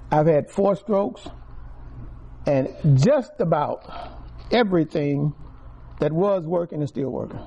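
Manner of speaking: loud testimony; preaching. Acted. Testifying to the church, loud preaching. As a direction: proclaim it with force.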